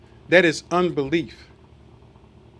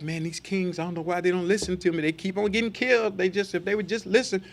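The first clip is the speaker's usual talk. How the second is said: softer, quick, mock-worried grumble as Daniel; mock fretting Daniel; 5 dB quieter than usual. Preacher mocks a worried Daniel, soft fast grumble. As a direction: play Daniel fussing over kings who won't listen.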